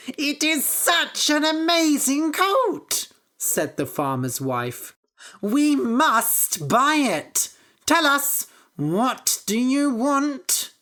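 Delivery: high, loud, slow gushing; thrilled. Acted. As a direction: gush over the magic coat. Wife excited, wants to buy coat.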